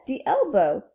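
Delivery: put-on amateurish French-accented English. Princess learning foot and gown, French accent. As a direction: keep up a rough French accent. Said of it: "hear this in a French accent".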